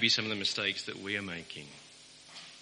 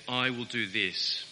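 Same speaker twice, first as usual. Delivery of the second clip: proud declaration. Retold or imitated.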